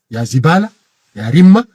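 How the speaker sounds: loud contemptuous "يا رمة"; furious name-calling; angry insult. Real, not acted. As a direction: hurl the insult with disgust. Insulting the opponent.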